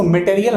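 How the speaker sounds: "मटेरियल" as may-tay-ri-yal; full ay vowel after the M in "मटेरियल"; common mistaken reading. Shown as a demonstration. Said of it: "हम लोग पढ़ते हैं".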